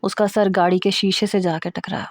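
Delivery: plain reading voice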